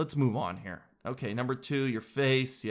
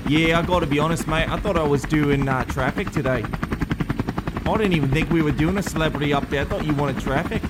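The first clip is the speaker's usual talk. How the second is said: British reporter voice; 4 dB louder than usual. Acted. Nigel confused, in helicopter.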